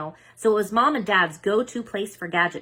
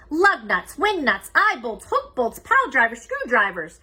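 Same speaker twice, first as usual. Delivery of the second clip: rhythmic list; 5 semitones higher, 5 dB louder than usual. A narrator's reading. Listing hardware gleefully.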